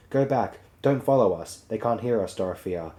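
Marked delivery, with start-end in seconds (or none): 0.1-1.6 calling out. Acted. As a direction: call out to the followers, voice raised a little. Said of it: "Lewis, you call to them".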